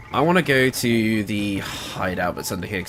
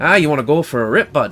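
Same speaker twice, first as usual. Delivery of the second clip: put-on Canadian accent; 4 semitones higher, 6 dB louder than usual. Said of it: "I used to say things like".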